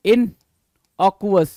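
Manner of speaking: "innocuous" stretched very slowly, each syllable held; drawn-out pronunciation. Shown as a demonstration. Teacher drawing out innocuous for the class, very slow. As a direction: spell out "innocuous" slowly for students. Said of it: "innocuous बोलते हैं".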